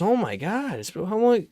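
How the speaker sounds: high, shocked shriek of disbelief; mock shocked grandma. Step grandma gasping at stale creamer, high and shocked. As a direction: play the appalled step grandma.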